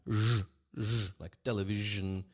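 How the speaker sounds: "zh" held long with a buzz; voiced zh. Shown as a demonstration. Teacher contrasting it with sh, buzzing zh. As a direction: drone the zh, then let it sound in "television". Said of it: "and you have zh".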